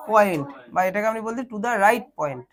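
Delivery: slow, deliberate phrasing; slow dictation. Shown as a demonstration. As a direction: lay it out slowly for the class. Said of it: "teacher dictating slowly".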